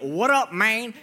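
mock guy-to-guy "what up"; buddy phone voice. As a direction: do the bro greeting on the phone. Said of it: "guys change their voices when they're boys".

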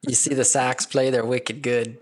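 put-on cheap Boston sports-fan accent; a hint of a Red Sox fan from Boston; New England accent. Talking up the Sox in a light, mock New England accent. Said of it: "You sound like a cheap Matt Damon".

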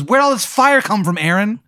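high, startled voice for the time traveller; alarmed Jay. Acted. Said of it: "He goes".

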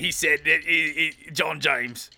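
low-pitched Aussie storyteller; Australian accent. Pretend. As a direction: spin a halting yarn in mock Australian. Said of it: "do it in your Australian accent".

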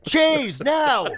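high, shocked exclamation; startled yelp. Retold or imitated. Guest finds a man in the wardrobe, shocked yelp. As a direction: jump out of your skin.

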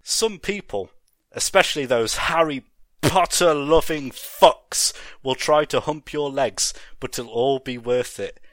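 high, loud ranting; villain rant. Acted. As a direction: spit it out in a frenzy.

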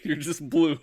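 hammed-up villain with laughs; villain line parody. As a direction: play a cheesy villain bonding speech. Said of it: "and I'm like".

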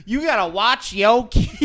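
mock Black American accent, drawn up high; imitated Black American accent. Comic retelling last night's blurt to the room, imitated Black American accent. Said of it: "the black voice".

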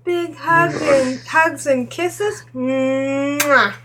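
Juno voice, slow and high, blowing kisses; campy drag queen. Pretend. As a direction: gush over the darlings like a diva. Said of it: "can you just do a little bit of Juno for us".

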